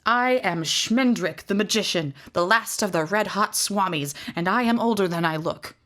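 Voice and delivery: grand proclamation. Acted. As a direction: declaim it like a showman. Magician grandly announces himself.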